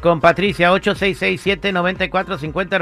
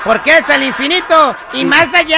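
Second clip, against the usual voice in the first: laughing; 8 semitones higher, 6 dB louder than usual. Real, not acted. Joke about Buzz Lightyear.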